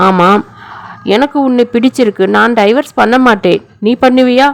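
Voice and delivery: a hint of a child's voice; young sisters talking. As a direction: read the two little sisters' exchange with a touch of childlike lilt. Child sisters plan running away.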